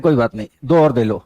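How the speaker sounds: indulgent shrug. Retold or imitated. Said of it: "tone होती है ना बड़ी मीठी".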